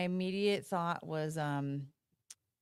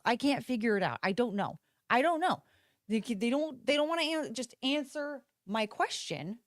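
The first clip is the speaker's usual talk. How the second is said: worked-up, higher-pitched complaining; exasperated rant; 3 semitones higher than usual. Real, not acted. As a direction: pitch jumping up in frustration. Exasperated rant about failed internet search.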